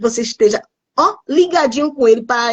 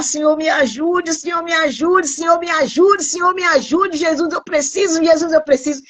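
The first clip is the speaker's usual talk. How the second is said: higher, pleading lines that rise each time, as if close to tears; tearful pleading prayer; 5 semitones higher than usual. Retold or imitated. Retelling her tearful prayer to the Lord, pleading. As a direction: beg the Lord for help, a touch tearful. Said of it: "E eu começava a chorar".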